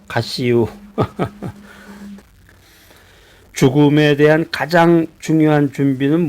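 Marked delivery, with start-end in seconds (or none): 0.1-0.7 understated Chungcheong dialect. Retold or imitated. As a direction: drop it as a dry Chungcheong punchline. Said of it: "그러면 끝난다고 그래요".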